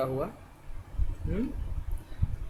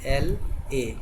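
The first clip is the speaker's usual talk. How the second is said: slow spelling; much slower than usual. Shown as a demonstration. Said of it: "कैसे लिखते हैं?".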